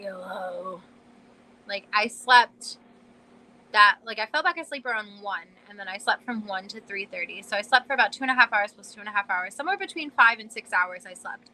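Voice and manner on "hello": hoarse, frog-like, croaky voice. Retelling answering a call after waking up: imitating own froggy voice. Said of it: "I literally sounded like a frog".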